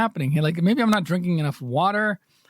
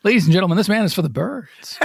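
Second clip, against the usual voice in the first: mock announcer; 4 dB louder, faster than usual. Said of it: "Nobody knows what that means".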